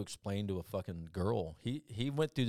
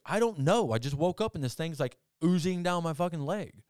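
higher, louder clueless protest; bewildered friend; 8 semitones higher, 7 dB louder than usual. Retold or imitated. Elmer explaining the oozing burn, high baffled protest. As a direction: play him baffled at waking up burned.

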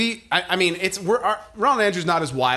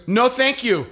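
higher, laughing mock-polite no; polite toddler refusal; 7 semitones higher, 4 dB louder, slower than usual. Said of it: "he goes".

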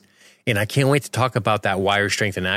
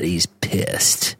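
whispering; 4 semitones lower than usual. Real, not acted. Whispered aside.

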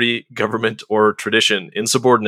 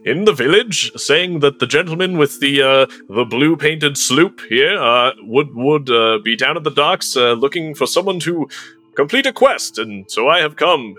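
hesitant cleric voice; 3 semitones higher than usual. Acted. Cleric plays stammering earnest character.

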